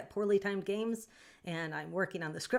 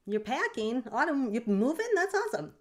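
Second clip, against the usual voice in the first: excited; 6 semitones higher, 4 dB louder than usual. Real, not acted. Reacting to chat news.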